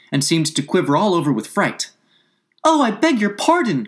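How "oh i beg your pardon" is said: high, loud cry of apology; hasty cry. A narrator's reading. Alice fears she hurt the mouse's feelings, hasty high cry. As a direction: blurt out a high-pitched apology. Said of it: "cried Alice hastily".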